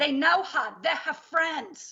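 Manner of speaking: put-on New York accent. Speaker retelling how people would answer a question, new york accent. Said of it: "That's my New York uh, accent".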